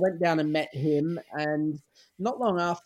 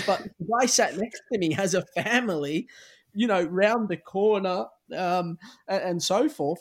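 Italian broken English; 4 semitones higher, 4 dB louder than usual. Retold or imitated. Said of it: "he's broken English".

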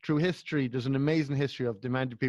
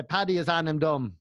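Meath Irish accent. Shown as a demonstration. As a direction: lightly demonstrate a Meath accent. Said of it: "that kind of accent".

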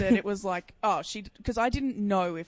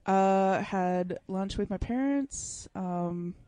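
apathetic, slow; 2 semitones lower, 4 dB quieter, much slower than usual. Shown as a demonstration. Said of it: "Give us a taste of the phone voice".

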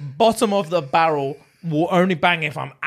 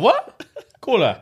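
put-on shocked girl; 5 semitones higher, slower than usual.

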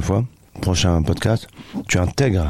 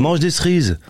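higher, teasing way of saying "cerises"; mocking pronunciation; 8 semitones higher than usual. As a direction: tease the accent on "cerises". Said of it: "si toi, tu dis cerise". (imitation moqueuse et aiguë de « cerises »)

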